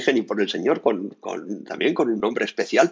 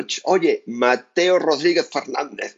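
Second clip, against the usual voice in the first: llamada severa, más aguda y lenta; «Mateo Rodríguez Fernández» recalcado, como reprimenda; regaño con nombre completo; 4 semitones higher, slower than usual. Retold or imitated. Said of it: "te enfadas con alguien". (regañina fingida, lenta y marcada)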